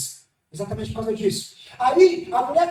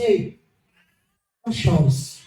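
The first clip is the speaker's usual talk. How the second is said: low tender comfort; 6 semitones lower, slower than usual. Acted. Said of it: "Jesus olha no olho da mulher e fala assim".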